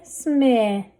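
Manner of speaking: smith with held vowel, th set apart; blended slowly. Shown as a demonstration. Teacher sounding out a word for readers, blended slowly. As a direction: stretch smith out, adding th last. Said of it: "Let's read this".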